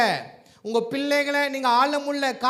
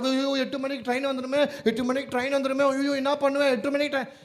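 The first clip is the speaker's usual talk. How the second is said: acted-out worrier fretting over a train; mock fretful lament; 2 semitones higher than usual. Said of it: "புலம்பு, ஏன் புலம்புற?". (பதற்றமாகப் புலம்புவது போல் நடித்து)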